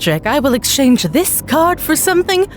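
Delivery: lightly voiced magician, savouring each word; showman magician. Magician announces trick.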